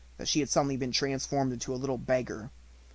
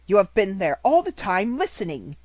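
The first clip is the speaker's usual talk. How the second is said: higher, louder accusation; accusing; 6 semitones higher, 7 dB louder than usual. A narrator's reading. Headmistress accusing the maid, louder and cold. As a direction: catch her out coldly.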